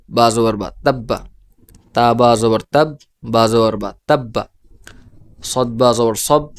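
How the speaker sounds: measured drill, each closed syllable rising as in "রব", joined word falling as in "রব্বা"; tashdid spelling drill. Shown as a demonstration. Teacher pronouncing every word for learners to follow, demonstrative spelling drill. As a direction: spell in parts, then hold the doubled consonant, as in "তাব্বা", "মাদ্দা". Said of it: "তো আমি উচ্চারণ করছি".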